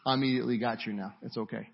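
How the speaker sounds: low, soft comforting voice; hushed, lightly acted comfort; gentle reassurance. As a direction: drop down quietly to soothe. Voicing Jesus reassuring sinking Peter.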